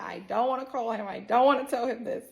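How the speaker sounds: lightly acted crying complaint; mock crying. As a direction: imitate a reluctant, crying plea. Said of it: "Now I'm really crying".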